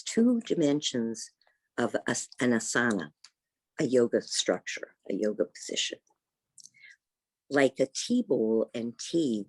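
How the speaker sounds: measured poetry reading, pausing between phrases; poem reading. Acted. Yoga teacher reads a poem to her class, measured recitation. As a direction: read a poem aloud, each line falling to a close. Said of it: "I'm gonna read a poem about that".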